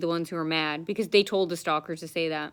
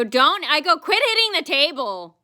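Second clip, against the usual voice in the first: firm retold demand; 7 semitones higher, 5 dB louder than usual. Speaker confronting the clerk.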